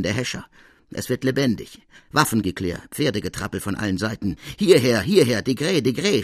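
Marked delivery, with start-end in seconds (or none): 4.6-6.2 loud, high call down the street; shouting. Acted. Degré calling his men in pursuit, loud shouts. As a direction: call for help across the streets. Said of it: "schreie ich".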